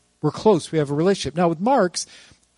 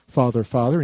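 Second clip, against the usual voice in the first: lightly put-on English accent, low; mock English accent; 5 semitones lower than usual. Child addressing his father formally, mock English accent. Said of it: "in an English accent".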